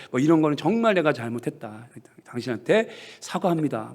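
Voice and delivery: 훨씬 작게, 낮게 사과하듯; 아내 손 잡고 작게 진심으로 사과; 조용한 사과. Retold or imitated. 남편이 아내에게 사과함. (남편이 아내에게 작고 낮게 사과하는 말투)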